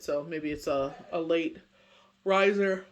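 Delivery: talking through a yawn. Real, not acted. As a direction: yawn while speaking. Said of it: "Excuse my yawning".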